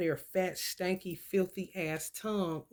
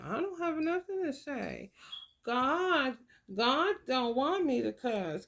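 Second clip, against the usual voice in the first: put-on child's pious reply; 2 semitones higher, 4 dB quieter, slower than usual. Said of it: "He said".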